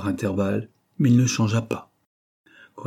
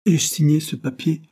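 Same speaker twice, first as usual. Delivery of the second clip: dying man interrupting; 8 semitones higher, 5 dB louder than usual. Acted. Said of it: "interrompit-il".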